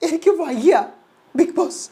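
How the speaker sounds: high, whining plea; whiny Jasmine. Acted. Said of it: "അപ്പൊ Jasmine വീണ്ടും".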